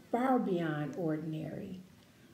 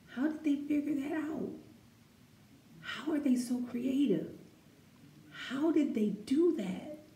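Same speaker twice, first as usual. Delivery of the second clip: amazed wonder; 5 semitones higher than usual. Pretend. Voicing amazed people in the book.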